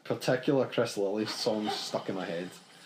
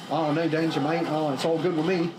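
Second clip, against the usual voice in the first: put-on Jim in Australian accent; 2 semitones higher than usual. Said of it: "And Jim will go".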